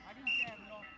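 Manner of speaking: loud low call; sideline shout. Real, not acted. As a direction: yell the position across the field. Allenatore chiama la posizione ai giocatori. (grido dal bordo campo)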